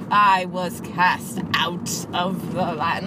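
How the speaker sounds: slow, lightly faked British movie-star accent; mock British accent. Quoting the actor's opening line, slow mock British accent. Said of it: "like that at the beginning".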